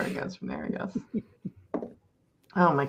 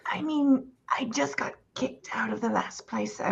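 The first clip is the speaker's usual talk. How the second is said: whispering; 5 dB quieter than usual. Acted. Character confides she was hunted.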